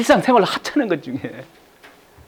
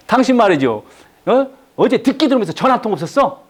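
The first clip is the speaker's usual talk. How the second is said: blaming spouse; 3 semitones higher than usual. Retold or imitated. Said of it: "이렇게 말하죠".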